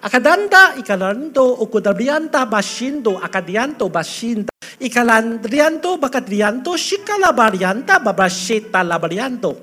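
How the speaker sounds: flowing fervent Italian-sounding tongues; demonstrating the gift of tongues to the church; speaking in tongues. Shown as a demonstration. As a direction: pour out the heavenly language in a stream. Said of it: "就比如说".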